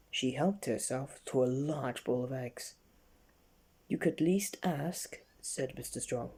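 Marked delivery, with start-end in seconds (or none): 3.9-5.2 slow, odd scolding voice; stern scolding. Acted. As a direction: slowly rebuke her rudeness. Mister Strong scolds slowly.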